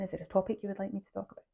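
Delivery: talking through the hiccups. Real, not acted. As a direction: hiccup breaking the words. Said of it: "got the hiccups there".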